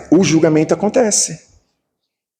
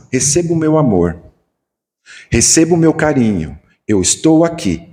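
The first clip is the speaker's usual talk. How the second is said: tender comfort. Shown as a demonstration. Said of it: "O máximo".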